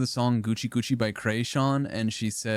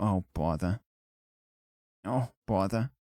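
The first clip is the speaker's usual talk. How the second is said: lower-pitched cartoon bear voice; 2 semitones lower, 3 dB quieter than usual. Acting out Winnie the Pooh in different situations, Winnie the Pooh voice. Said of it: "Winnie the Pooh after s- spilling something".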